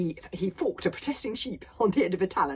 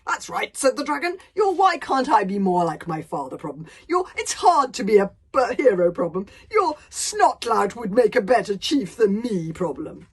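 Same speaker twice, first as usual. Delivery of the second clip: a giant savouring every word of his philosophy; pompous dragon philosopher; 3 semitones higher, 11 dB louder than usual. Acted. Dragon lecturing Hiccup on life, loud and grandiose.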